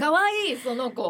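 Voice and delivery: high, loud squeal of delight; gushing. Real, not acted. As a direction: squeal it like seeing something adorable. Cooing over a cute image.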